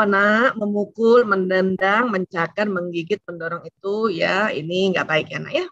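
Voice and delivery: put-on calm, firm parent correcting a child. Shown as a demonstration. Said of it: "katakan dengan tenang".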